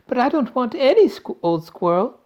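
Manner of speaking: high, loud protest; bratty shout. A narrator's reading. Veruca refuses any ordinary squirrel, shouting. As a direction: yell it like a spoiled child. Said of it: "Veruca shouted".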